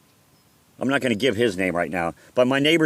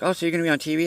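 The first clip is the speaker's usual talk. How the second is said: put-on higher-pitched girlfriend's question; retold question in a raised girlfriend voice; imitating girlfriend; 8 semitones higher, much faster than usual. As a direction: lightly mimic a girlfriend asking, pitched up.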